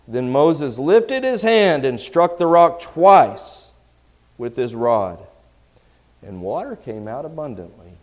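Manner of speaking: loud, projected Bible reading, pitch lifted; scripture reading. Acted. Preacher reading Numbers to his congregation, loud scripture reading. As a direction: read scripture out forcefully to the room.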